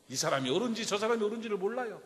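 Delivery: usual speaking voice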